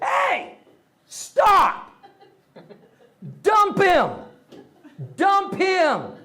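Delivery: put-on high, loud kid shouting "stop" and "dump him"; a twelve-year-old boy yelling orders from the back seat, high and loud; kid bossing sisters. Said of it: "Then I finally stepped up and I said".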